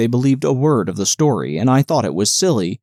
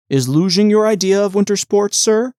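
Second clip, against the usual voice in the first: mildly scornful official; 8 semitones higher than usual. Acted. Official mocks luging as sport.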